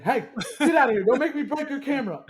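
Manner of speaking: high, fast mock shout at someone; loud, rushed impression of telling someone off; imitated yell. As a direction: yell it like an angry movie character. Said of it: "he yells at that photographer".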